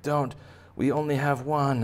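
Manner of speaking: high mock-urgent warning; protesting officials. Lab workers guarding their only carrot, high plea. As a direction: plead it in a high put-on voice. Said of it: "And they're like".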